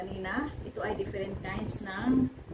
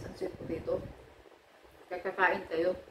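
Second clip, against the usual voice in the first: chewing while talking; speaking between bites; mouth full. Real, not acted. Seen 3: Bites sweet potato from chopsticks, then chews with hand near mouth.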